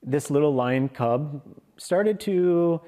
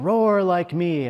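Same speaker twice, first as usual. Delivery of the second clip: commanding big lion; 5 semitones higher, 4 dB louder than usual. Acted. Big lion commands cub to roar.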